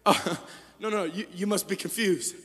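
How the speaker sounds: soft, gentle Jesus voice; tender reassurance. Acted. Jesus gently comforting the discouraged listener. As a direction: reassure them softly. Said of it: "Jesus steps in and says".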